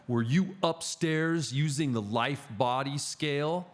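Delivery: imitated interrogation, slow and deliberate; mildly aggressive caller, imitated. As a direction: retell it as a pointed, slow accusation. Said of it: "got this aggressive tone to him".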